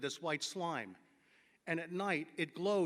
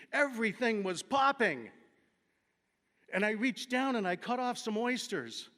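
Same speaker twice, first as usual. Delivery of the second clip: excited; 3 semitones higher, 4 dB louder than usual. Real, not acted. Excited discovery of mushrooms.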